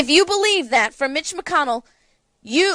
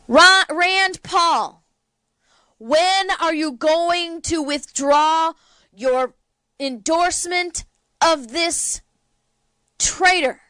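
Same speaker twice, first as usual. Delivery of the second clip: angry call-out; 4 semitones higher, slower than usual. Real, not acted. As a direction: bellow the name, then drag out the accusation. Calling out a senator.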